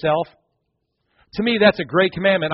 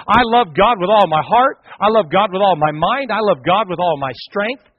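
louder, proud confession; bold declaration; 4 dB louder than usual. Shown as a demonstration. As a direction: declare it boldly. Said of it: "wouldn't you love to be able to say".

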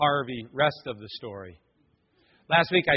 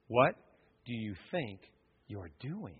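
low, hushed and menacing, barely voiced; devil's whisper; 6 semitones lower, 11 dB quieter, slower than usual. The devil whispering doubt to the pastor, low and hushed. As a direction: breathe it like a tempter in the ear. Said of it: "I heard that whisper".

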